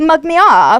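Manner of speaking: put-on English accent. Speaker repeating a man's phrase back at him, in a put-on English accent. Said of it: "all I do is repeat the English accent".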